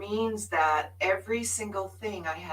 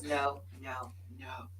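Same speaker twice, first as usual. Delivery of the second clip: building from a murmur to a yelled refusal; stubborn no-no-no rising into a yell; mock resistant no; 2 semitones lower, 15 dB louder, slower than usual. Reenacting resisting her teacher.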